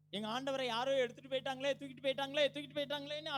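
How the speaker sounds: high plaintive wail, lightly acted; understated acted crying; mock weeping lament. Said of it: "அழுகுறதா".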